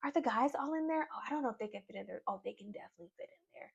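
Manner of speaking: high giddy mock chatter; mock girlies. Vlogger voicing the girls waiting for the box, high. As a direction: play the excited girls waiting.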